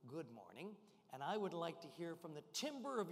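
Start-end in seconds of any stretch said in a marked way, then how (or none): 0.1-0.7 soft demo. Shown as a demonstration. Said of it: "I'm gonna say to you".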